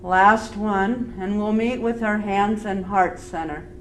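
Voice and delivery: calm, unhurried yoga teacher voice; easy, measured breathing cues with long pauses; guided breathing. Real, not acted. Leads a breathing practice.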